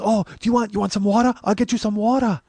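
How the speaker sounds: high-pitched fussing woman's voice; helpful woman. Retold or imitated. Acts out the woman offering water.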